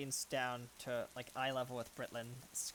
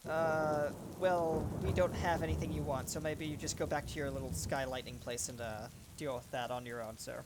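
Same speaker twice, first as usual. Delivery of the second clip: louder, cocky sea captain brushing off a god; defiant captain; 6 dB louder than usual. Acted. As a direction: talk back to the monster, a bit louder. Captain defies the creature.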